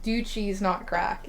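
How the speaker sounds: words pushed out on a burp. Real, not acted. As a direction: talk through a burp. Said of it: "I'm gonna burp one more time".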